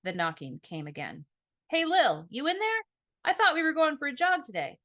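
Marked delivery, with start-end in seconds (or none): 1.7-4.8 high, loud brotherly call through a door. A narrator's reading. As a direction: call out cheerfully to wake your sister. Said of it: "It was Ezra".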